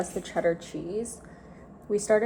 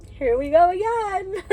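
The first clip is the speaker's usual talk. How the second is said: weary dread; 10 semitones higher, 4 dB louder than usual. Retold or imitated. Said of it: "every morning it's like".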